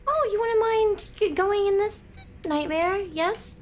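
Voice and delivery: mock polite request. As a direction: mimic someone making an outrageous request lightly. Mimics the widow's request.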